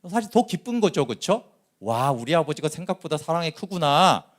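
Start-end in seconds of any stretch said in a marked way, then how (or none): 1.8-4.3 lightly acted glad wonder, higher pitched; joyful amazement. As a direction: marvel happily, pitch lifted, as a grateful son. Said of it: "이렇게 기쁘게 오히려 맏아들이 받아들일 수 있는데".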